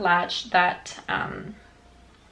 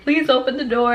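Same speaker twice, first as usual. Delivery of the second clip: higher, mildly pleading mimicry; imitated crying plea; 4 semitones higher, 4 dB louder than usual. Crying brother begging police, lightly imitated plea. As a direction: plead lightly like an upset kid. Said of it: "my brother's on the phone crying".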